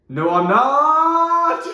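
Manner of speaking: starts small then bursts out high and loud, dragged slow; sudden defiant shout. Retold or imitated. Quiet kid shouting back at the gym teacher. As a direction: blurt it out way too loud. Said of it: "I started quiet and, gained a lot of misplaced confidence".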